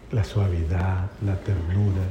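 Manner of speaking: low, gentle voice; name each quality softly and tenderly. Shown as a demonstration. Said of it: "ese tono con que usted habla".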